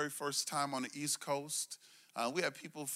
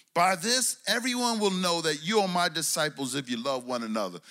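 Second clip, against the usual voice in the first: loud preached scripture; 6 dB louder than usual. Acted.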